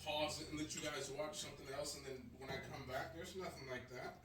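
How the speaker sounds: calling from another room; distant voice from offscreen; far off. Real, not acted. Still away getting water.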